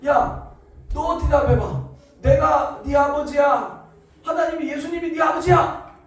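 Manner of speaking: loud, high shouted demand, slow in the middle; raging drunk father yelling; drunk father shouting. Retold or imitated. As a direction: shout at the child to answer. Father yells at little brother.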